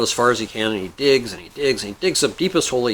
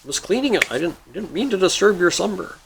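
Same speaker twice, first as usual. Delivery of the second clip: higher, stammering apology; apologetic guy; 6 semitones higher than usual. Acted. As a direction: stumble through a flustered excuse to a genie. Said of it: "The guy goes".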